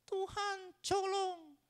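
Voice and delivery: high whining plea, hammed up; mock crying. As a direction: beg God in a fake sob. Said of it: "sambil nangis-nangis".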